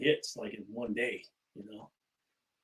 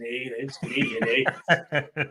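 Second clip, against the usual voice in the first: put-on Canadian accent; much slower than usual. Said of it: "I do a little Canadian accent".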